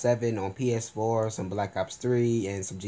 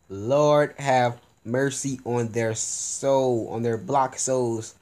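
mock solemn; 2 semitones higher, 3 dB louder, much slower than usual. Real, not acted. Mock prayer over losers.

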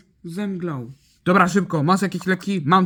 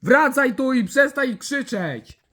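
high-pitched cross order; cross command; 7 semitones higher than usual. Pretend. Ordering a screaming character back, cross command.

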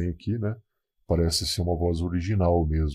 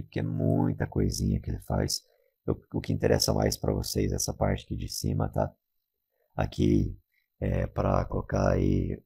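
much lower, buzzing robot voice; half robot voice; 11 semitones lower than usual. Shown as a demonstration. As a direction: voice changer robot filter. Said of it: "a famosa voz de robô".

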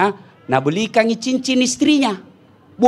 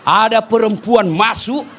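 grumble, then burst out in exasperation; jinn complaining. Retold or imitated. Well jinn complaining about the nagging wife, rising to a shout.

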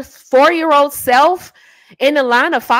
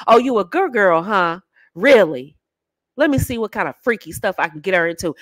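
low, knowing male imitation; scheming man; 5 semitones lower than usual. Man sizing up a good girl, slyly skeptical. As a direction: say it low, like he's sizing her up.

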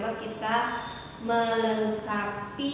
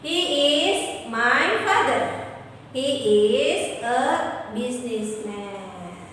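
model sentence. Shown as a demonstration. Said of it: "jadi he".

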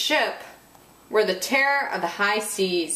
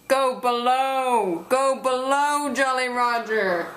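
slow bossy pirate order; pirate command; 3 semitones higher, slower than usual. Acted. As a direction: order him below slowly. Pirates order Roger below.

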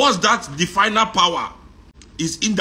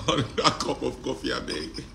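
soft pleading; 3 semitones lower, 7 dB quieter than usual. Acted. Repeat, softer pleading.

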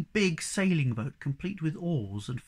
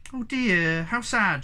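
higher, louder cry of dismay; bursting out; 6 semitones higher, 5 dB louder, slower than usual. A narrator's reading. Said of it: "she burst out".

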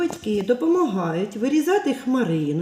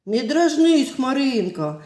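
louder hurt plea from the puppy; offended puppy; 2 semitones higher, 4 dB louder than usual. Acted. Puppy upset with teasing cloud, offended plea. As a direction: tell the cloud off like a sad pup.

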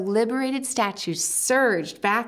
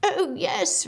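fawn's voice; 4 semitones higher than usual. Acted. Fawn character voice.

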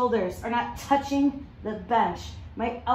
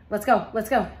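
halftime pep speech; 5 dB louder than usual. Real, not acted. Trainer urging last seconds.

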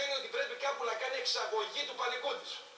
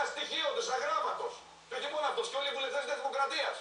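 mocking laugh, a bit higher; scornful laugh; 3 semitones higher than usual. Real, not acted. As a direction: laugh out the insult. Mocking the minister.

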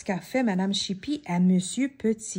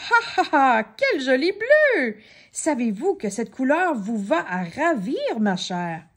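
jolly joker laughing over the words; hearty laugh; 3 semitones higher than usual. Acted. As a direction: crack up at her blue face. Monsieur Rigolo laughs at her.

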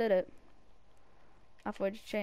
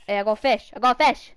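excited; 15 dB louder than usual. Real, not acted. Excited shout at catch.

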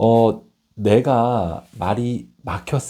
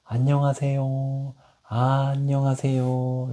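put-on talking to a baby; 4 semitones higher than usual. Shown as a demonstration. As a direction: greet it like cooing to a baby. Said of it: "이쁜 아기한테 말하듯이".

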